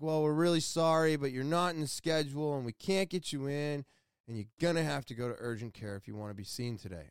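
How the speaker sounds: even, placating bad-news voice; apologetic staff. Clinic staff apologizing to an upset patient, placating.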